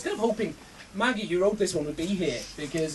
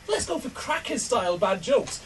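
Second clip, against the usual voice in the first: tame suggestion; 2 semitones lower, 7 dB quieter than usual. Retold or imitated. Friends suggesting fairly tame jokes, understated. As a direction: make a mild, modest proposal. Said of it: "generally kinda quite tame, just going".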